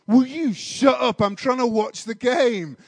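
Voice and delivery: man behind yelling at the chatterer to shut up; angry fan. Retold or imitated. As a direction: tell him off for talking through the match. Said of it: "hits the back of my head and said".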